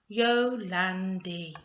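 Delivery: YOLANDI slowly, in three even parts; syllable by syllable. Shown as a demonstration. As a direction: divide YOLANDI into Yo-lan-di. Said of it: "you can divide that word into three".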